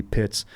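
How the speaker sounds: Pitts repeated crisply after spelling it out; name pronounced. Shown as a demonstration. After spelling the name, Pitts said clearly. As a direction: Pitts with a sharp p and ts ending. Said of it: "P I T Z".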